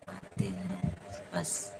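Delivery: like a slowed-down recording; deep slowed voice. Pretend. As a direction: drop the voice way down and drawl it. Repeats phrase in distorted voice.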